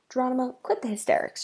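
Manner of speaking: firm, brisk command; no-nonsense order. Acted. Sister ordering brother to calm down, firm no-nonsense voice. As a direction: cut his panic short. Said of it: "she ordered in a no-nonsense voice".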